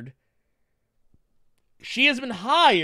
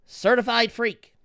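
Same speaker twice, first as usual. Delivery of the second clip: a hint of a stiff lyric reading, rising up high; mock reading lyrics; 4 semitones higher, 5 dB louder than usual. Mocking a pundit reading rap lyrics, stiff and high. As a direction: read rap lyrics like a stiff nursery rhyme. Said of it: "He was like".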